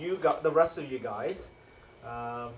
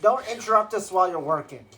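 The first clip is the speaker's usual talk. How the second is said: loud, higher guard's reprimand; acted scolding; 5 semitones higher, 7 dB louder than usual. Spine devil scolding a caged prisoner, acted loud reprimand. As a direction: tell off the noisy prisoner.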